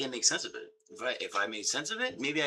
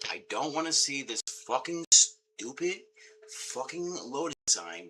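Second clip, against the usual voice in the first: louder, frustrated complaint at the screen; angry rant; 4 semitones higher, 6 dB louder than usual. Real, not acted. Streamer raging at a stuck loading screen, loud. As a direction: vent hard at the loading sign.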